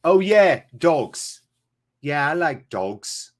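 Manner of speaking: put-on Snatch film voice and accent; Snatch movie accent. Streamer quoting Snatch for his chat, movie accent. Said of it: "I'll just fucking quote Snatch".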